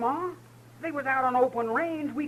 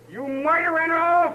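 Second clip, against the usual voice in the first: accusing cry; 6 semitones higher, slower than usual. Acted. Brother just shot.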